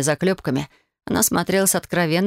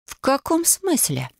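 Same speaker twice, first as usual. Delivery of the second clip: slow, raised-pitch challenge; menacing frown; 9 semitones higher, slower than usual. A narrator's reading. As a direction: demand an explanation, drawn out and offended. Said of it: "Грозно нахмурилась я".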